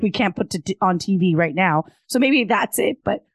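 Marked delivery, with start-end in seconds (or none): 2.1-3.2 straining a tired, failing voice; losing voice. Real, not acted. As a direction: voice cracking and giving out. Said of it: "I'm losing my voice".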